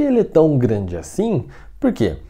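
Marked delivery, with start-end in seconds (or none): none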